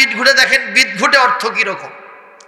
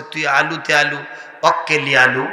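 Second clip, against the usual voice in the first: Bogura dialect; 3 semitones lower, 3 dB quieter than usual. Retold or imitated. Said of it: "বগুড়ার ভাষায় কথা কন".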